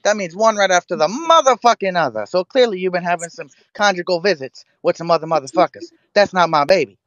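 comedian impression, indignant and emphatic; hammed-up stand-up tirade, hitting the key words; Cat Williams. Jailed man explaining the math to baby's mother, indignant comic impression. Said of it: "I could do Cat Williams".

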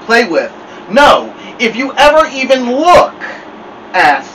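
Snake Woman voice. Acted. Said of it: "Snake Woman voice came out".

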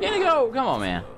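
high, loud call to a companion; exasperated call. Real, not acted. Gamer calling out to companion in the way, exasperated. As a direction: shout the name, pitch leaping up.

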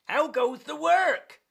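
high, loud farmer's call. Acted. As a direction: holler it as the farmer. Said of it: "called the farmer".

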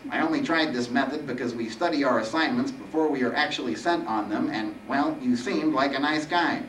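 slightly whiny explaining Reaper; nasal, weeny Reaper. Acted. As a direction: justify yourself as a lightly voiced weakling Reaper.

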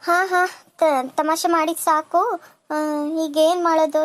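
slow, amused laugh into words. Acted. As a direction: chuckle the teasing away, slowly. Laughs off his joke. (ನಗುತ್ತಾ ನಿಧಾನವಾಗಿ ಮಾತು)

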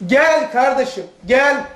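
gently inviting brother; kind gel. Shown as a demonstration. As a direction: call him over kindly. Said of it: "İkisi de gel".

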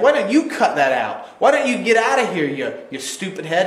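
put-on childish retort. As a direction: playground mockery, half laughing. Fool's childish comeback.

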